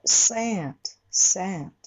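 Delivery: セント with a nasal a; 鼻にかける; nasal sat. Shown as a demonstration. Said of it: "こういう音".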